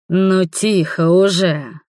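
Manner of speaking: slow inhuman creature whisper; creepy otherworldly voice, drawn out; eldritch horror. Acted. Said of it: "прошептали каким-то жутким нечеловеческим голосом".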